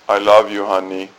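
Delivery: low droning repeat of I love you; bored, dutiful I love you; monotonous. Pretend. Husband repeating I love you, monotonous. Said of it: "the monotonous".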